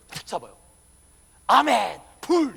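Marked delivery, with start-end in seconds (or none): 1.5-2.6 loud ringing revival-preacher cry; imitating a fiery preacher's loud call; revival preacher's shout. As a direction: belt it out like a revival preacher tossing the mic. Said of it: "이래요".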